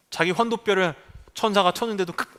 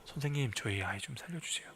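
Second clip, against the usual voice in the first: pleading parent; 7 semitones lower, 16 dB quieter than usual. Pretend. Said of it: "응급실 앞에 선 부모가".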